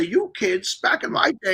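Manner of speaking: lightly voiced cranky old man; a hint of a grumpy grandpa lecturing. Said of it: "sound like an old man and say".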